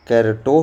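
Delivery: कैरटो ending in "to"; wrong spelling read out. Shown as a demonstration. Teacher rejecting wrong options for carrot, reads कैरटो ending in "to". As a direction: sound out the misspelt कैरटो as written. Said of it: "ये सब नहीं होगा".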